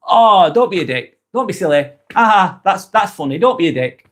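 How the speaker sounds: light, friendly teasing, pitched a bit up; light-hearted. Shown as a demonstration. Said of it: "I've said it in a light way".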